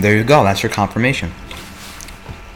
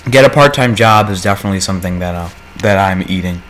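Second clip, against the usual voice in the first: mouth full; 3 semitones lower, faster than usual. Real, not acted. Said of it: "is me chewing as quickly as possible".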